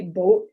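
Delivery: "boat" with a long, pure O. Shown as a demonstration. Lecturer showing what people say, "boat" with the UP O. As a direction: hold a single O vowel in "boat". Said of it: "might hear people say".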